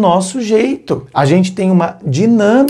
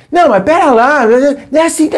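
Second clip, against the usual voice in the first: high, louder protesting; defensive pushback; 10 semitones higher, 3 dB louder, faster than usual. Shown as a demonstration. Arguing back at an angry friend, high and defensive. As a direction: push back, pitched up and raised. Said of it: "se você começasse a".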